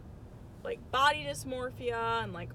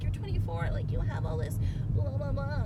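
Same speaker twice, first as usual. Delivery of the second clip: mocking others' advice; 5 semitones higher than usual. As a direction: brush off the lecture with a mock voice. Mocking what others tell her.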